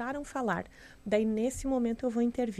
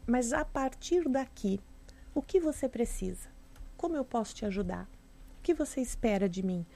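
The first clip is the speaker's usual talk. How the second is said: calm forward-looking offer. Shown as a demonstration. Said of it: "olhar pra frente".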